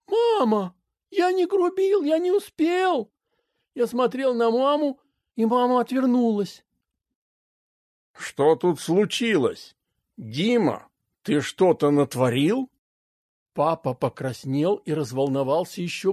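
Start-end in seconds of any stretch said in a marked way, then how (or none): 0.1-3.1 put-on much higher, desperate child's protest; a kid begging to be believed; boy pleading with his mother, high and upset. A narrator's reading. 8.1-12.7 lower, slow, heavy father's questioning; a father holding back anger; father questioning his son in a low, slow voice; stern father. A narrator's reading. Narrator voicing the father.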